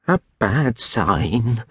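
put-on slow, drawn-out old countryman; ponderous old man's foreboding; gloomy old William. A narrator's reading. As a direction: pronounce it slowly, as an ill omen. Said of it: "said old William, shaking his head".

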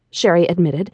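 ordinary delivery

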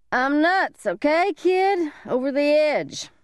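high, ranting madman voice; deranged man. Acted. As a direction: rave like a man gone mad.

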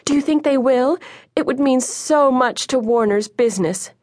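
high-pitched, thrilled outburst; excited calling. A narrator's reading. Mother calls to her neighbour from the window, excited calling. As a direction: call out the good news, pitch soaring. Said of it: "called excitedly to Missus Wintergreen".

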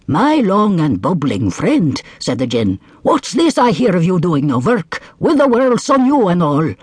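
lofty, mocking djinn; grand magical spirit. Djinn addresses camel.

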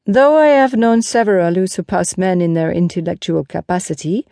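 lightly voiced knight with a barbed aside; a hint of disdain; Lancelot, pointed. Lancelot jibes at his mockers.

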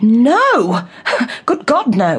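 emphatic, startled denial with a laugh; shocked denial. Acted. Guest accused of an affair by the wife, shocked denial. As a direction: deny it outright, voice lifting on the oath. Denies affair with woman's husband.

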